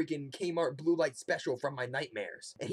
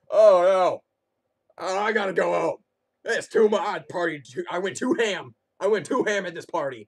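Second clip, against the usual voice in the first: put-on loud, high slurry drunk whine; drunk partier; 5 semitones higher, 10 dB louder than usual. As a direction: whine like a wasted party guy. Drunk partier voiced leaving party.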